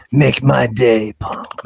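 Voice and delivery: creaky low tough-guy growl; vocal fry. Shown as a demonstration. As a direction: drag it out slowly in vocal fry. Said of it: "with a little, like, vocal fry".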